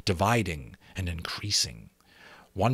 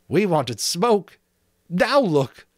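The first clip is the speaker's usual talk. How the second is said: slow, loud exasperation; dismayed Ralph; 9 semitones higher, 6 dB louder, slower than usual. A narrator's reading. Ralph to the boys, exasperated. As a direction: point at the mess, fed up.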